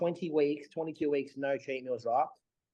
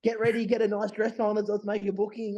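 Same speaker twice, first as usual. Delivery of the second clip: higher, bubbly retelling of a happy phone call; excited news; 6 semitones higher than usual. Retold or imitated. Telling Dave they're going out for sushi, excited. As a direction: replay the thrill of announcing a sushi night.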